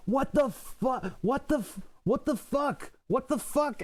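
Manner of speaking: high, baffled swearing, over and over; exasperated cursing. Retold or imitated. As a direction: throw up your hands in disbelief. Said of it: "I'm just like".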